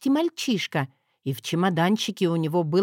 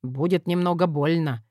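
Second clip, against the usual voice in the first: smirking; 3 semitones lower than usual. Acted. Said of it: "хмыкнул судмедэксперт".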